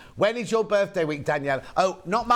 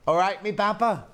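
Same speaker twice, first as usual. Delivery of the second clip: Bristolian greeting; 4 semitones higher than usual. Retold or imitated. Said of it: "It's Bristolian".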